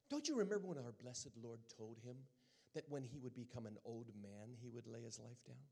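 brisk, lightly British questioning; gently remind, in mock British; a touch of British accent; imitated British accent. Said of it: "with her British accent".

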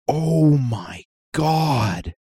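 put-on slow, drawn-out little kid voice; toddler imitation. Dad imitating his son reacting to the TV, slow toddler voice. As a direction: stretch it like a two-year-old. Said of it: "Sully goes".

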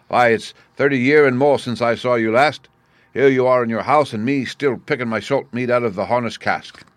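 lightly voiced old seaman; a hint of a sly sailor airing a grievance; lightly played seaman, familiar and complaining; cringing, crafty sailor.

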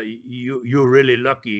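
put-on deep deadpan threat from a hard old man; gruff old wrestler voice. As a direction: drop way down as the menacing old wrestler. Dutch voiced in retold story.

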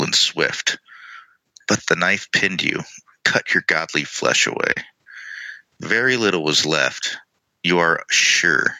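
measured dramatic reading with pauses between phrases; lore narration. Acted. Co-host reads a Ghost Fragment to listeners, measured narration. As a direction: read it out deliberately, letting each image land.

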